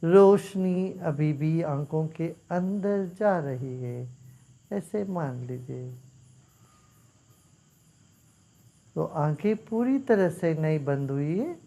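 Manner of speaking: measured meditation instructions with long pauses; guided meditation. Real, not acted. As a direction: guide them unhurriedly, leaving silence between steps.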